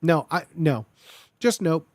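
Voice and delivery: normal talking voice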